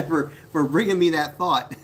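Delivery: giggling through a pretend thank-you; light laughing gratitude. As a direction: thank her while laughing. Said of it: "I'm gonna say".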